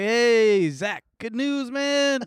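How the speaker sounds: lightly voiced laid-back doctor; chill doctor voice. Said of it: "he's like".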